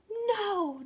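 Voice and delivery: sudden high loud cry of "No!"; girl's cry. Acted. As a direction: shout it to stop him. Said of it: "Julia cries".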